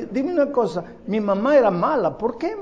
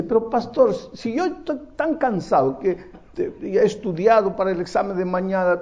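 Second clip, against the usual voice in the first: a hint of a tired young man, higher pitch; young man's excuse; 5 semitones higher than usual. A tired young man excusing himself to his pastor, lightly voiced. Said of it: "un joven me dice".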